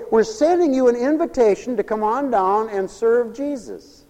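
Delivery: high, loud, eager call; rousing invitation. Shown as a demonstration. Preacher showing the church how to invite, rousing. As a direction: call people in with fire.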